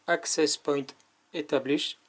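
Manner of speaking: English words in a heavy French accent; bad English accent. Shown as a demonstration. Reviewer quoting the camera's English prompt, heavy French accent. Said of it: "mon accent anglais est pourri".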